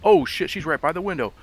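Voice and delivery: scared. Real, not acted. Ghost appears, panicked warning.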